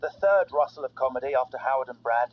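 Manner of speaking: lively scripted radio opener; comedy show intro. Acted. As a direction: announce the show with showy energy.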